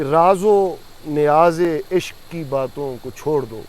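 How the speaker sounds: slow, measured verse delivery; stately, stretched-out poetic line; poem recitation. Real, not acted. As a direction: recite Urdu verse, drawing out each phrase. Recites a couplet from memory.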